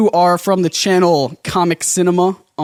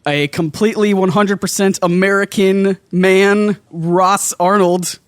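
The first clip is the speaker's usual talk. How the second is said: slow, drawn-out host announcement; mock grand introduction; announcer intro; slower than usual. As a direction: build up the guest like a showman. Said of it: "announcing guest grandly".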